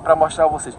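stammering, mouth trembling with cold; stuttering from cold. Real, not acted. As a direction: teeth chattering, words stumbling. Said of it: "tô gaguejando, porque minha boca tá tremendo de frio".

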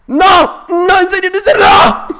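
high, loud cry of disbelief; wailing despair. Real, not acted. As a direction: wail in anguish at a sudden loss. Loses the game after boasting. (lamento agudo y desesperado)

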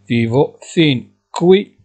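each syllable drawn out, slowly; slow dictation. Shown as a demonstration. Teacher to Moroccan students, slowly dictating Italian. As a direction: spell it out slowly for learners. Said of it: "teacher dictating".

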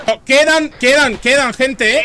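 alarmed. Real, not acted. Enemies still left, alarm.

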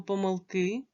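"помилки" with stress on the final "ки"; last-syllable stress. Shown as a demonstration. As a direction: rise onto a stressed "ки" in "помилки". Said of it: "як треба вимовляти слово". ("помилки" з наголосом на останній склад "ки")

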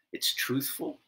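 ordinary talk

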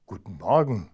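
a lightly voiced friendly hedgehog greeting. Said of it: "sagte der Igel freundlich".

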